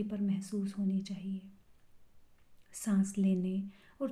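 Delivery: measured breath-by-breath meditation guidance; calm meditation teacher's voice; guided meditation. Real, not acted. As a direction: lead them gently into the breathing, slightly hushed.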